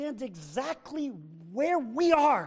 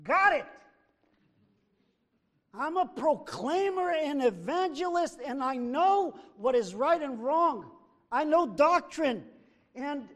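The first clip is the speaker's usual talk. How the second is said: mock believer. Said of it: "So you can say".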